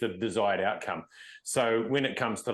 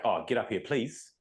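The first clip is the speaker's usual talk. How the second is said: easy, calm call to the dogs; relaxed and friendly, no edge. Shown as a demonstration. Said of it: "in a calm voice".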